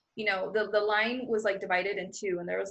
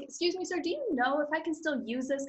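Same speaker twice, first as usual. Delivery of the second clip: higher, extra-polite sweetness; sweet, charming voice; 6 semitones higher than usual. Retold or imitated. She charms the immigration officer with a sweet polite question. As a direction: charm him with a bright, polite ask.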